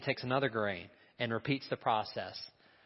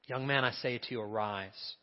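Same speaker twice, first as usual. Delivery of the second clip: quieter, reflective repeat of the command; soft echo; 5 dB quieter than usual. Shown as a demonstration. Preacher repeating Jesus' words to the congregation, hushed. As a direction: let the words settle gently on the congregation.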